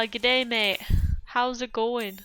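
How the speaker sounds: a quick mock Aussie hello; Australian greeting. A hint of Australian accent greeting an Aussie viewer. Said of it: "Val's an Aussie".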